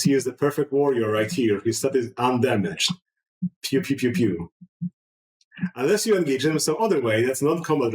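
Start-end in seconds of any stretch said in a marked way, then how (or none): 3.6-4.5 light pew-pew shooting noises; spoken pew-pew, the last one dropping in pitch; imitated gunfire. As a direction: toss off little toy-gun sound effects. Imitates the deflected shots.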